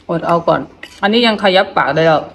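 talking through stiff, swollen lips; barely moving the tight lips. Real, not acted. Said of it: "มันตึง มันขยับบ่ได้".

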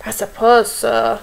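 expressive storyteller with lifted owl lines; story reading to children. A narrator's reading. Teacher reads owl story to young children, expressive storytelling. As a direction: read a picture book to little ones.

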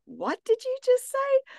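high-pitched mock bafflement; baffled listener. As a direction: imitate someone who can't follow a word, voice shooting up. Quoting baffled American listeners.

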